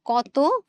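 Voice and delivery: কততম split slowly, "koto ... tomo"; slow, separated কততম with clear o endings; demonstrated pronunciation. Shown as a demonstration. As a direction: pause inside কততম, each half ending in o. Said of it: "আমাদের উচ্চারণটা কিন্তু এরকম".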